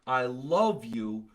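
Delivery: slow, sincere declaration; plainly heartfelt, drawn-out love. Shown as a demonstration. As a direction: say it slowly and mean it. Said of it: "See the difference?".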